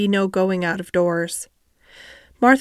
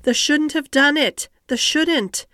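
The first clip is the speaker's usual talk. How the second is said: higher, a maid near tears; Yorkshire maid half in tears; half crying; 7 semitones higher than usual. A narrator's reading. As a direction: plead with her, close to crying. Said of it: "half crying".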